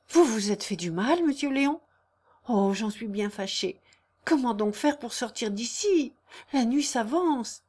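lightly acted innocent concern; gently anxious woman's voice; concerned young woman. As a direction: fret kindly, then worry about leaving. Narrator plays concerned Jeanne.

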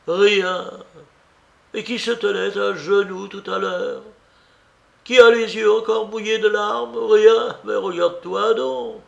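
high, loud scolding aunt; incredulous aunt. Acted. Aunt disbelieving her tearful niece, indignant scolding.

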